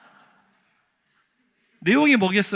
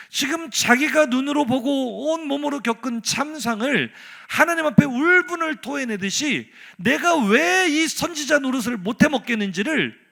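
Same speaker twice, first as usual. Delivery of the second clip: impassioned preaching; 6 semitones higher, 7 dB louder than usual. Acted. Preacher retelling the prophet's grievance, impassioned and loud. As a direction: pour it out loudly, stretching the key words.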